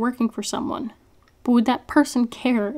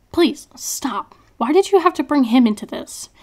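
hushed, pleading whisper; desperate whisper; 4 semitones higher, 3 dB louder than usual. A narrator's reading. Prisoner begging captor to spare her father, whispered. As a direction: beg him to stop under your breath.

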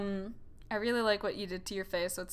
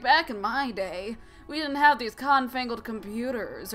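parents' complaint; 3 semitones higher, 5 dB louder than usual. Retold or imitated. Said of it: "my parents will be like".

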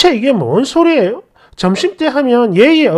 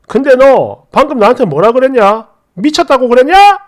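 mild mock yell; acted indignation, building on the final question; angry yelling; 3 dB louder than usual. Boyfriend turning the argument on his girlfriend, mildly raised angry voice. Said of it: "막 소리 지르고 난리가 나요".

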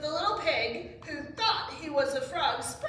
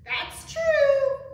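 high, loud chorus-like agreement; animals agreeing; 13 semitones higher, 11 dB louder than usual. A narrator's reading. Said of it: "the animals agreed".

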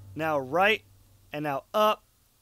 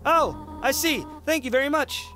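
a lightly raised, kindly goat mom; gentle motherly voice; 4 semitones higher than usual. Acted. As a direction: read it as a caring mother calling. Voicing Toriel on the phone.

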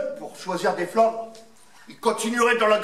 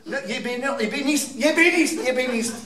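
put-on child; 4 semitones higher, faster than usual. Child insists on the answer.

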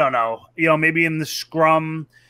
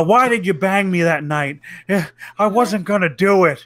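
mock whiny Jake; 2 semitones higher than usual. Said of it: "Like, you know".

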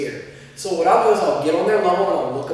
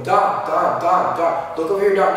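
name repeated over and over, a bit loud; repeated nagging calls; 3 semitones higher, 4 dB louder than usual. Shown as a demonstration. Teacher showing the wrong way to get attention, repeated calls. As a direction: keep calling the name for attention. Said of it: "No, just, "Don!".

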